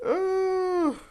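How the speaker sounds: very high, loud drawn-out "ooh"; laughing whoop. Real, not acted. Reader recovering from her own joke, a laughing whoop. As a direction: whoop loudly on the tail of laughter.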